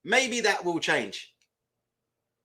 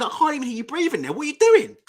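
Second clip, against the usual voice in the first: higher, louder telling-off; louder exasperated coach yelling at a fighter; exasperated call; 5 semitones higher, 4 dB louder than usual. Retold or imitated. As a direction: call them out across the gym. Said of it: "I said".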